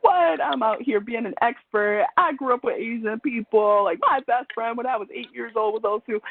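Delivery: indignant, offended self-defence; defensive outburst. Retold or imitated. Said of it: "Internally, I was like".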